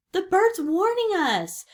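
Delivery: high, loud shout of warning. A narrator's reading. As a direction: shout urgently to the others. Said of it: "shouted Pinky".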